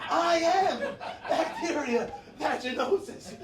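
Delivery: booming mock declaration. Comic owning up to being the culprit, loud mock proclamation. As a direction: proclaim it slowly like a grand confession. Punchline repeated as big declaration.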